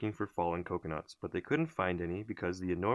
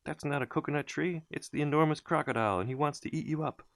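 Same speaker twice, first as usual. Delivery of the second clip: shouted warning; 8 semitones higher than usual. A narrator's reading. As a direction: yell to save the children. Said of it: "shouted Humpy Rumpy".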